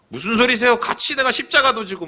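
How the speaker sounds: 펄쩍 뛰며 항변하듯; Peter protesting. Retold or imitated. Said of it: "베드로 한번 생각을 해보세요". (베드로가 예수께 펄쩍 뛰며 하는 높은 항변)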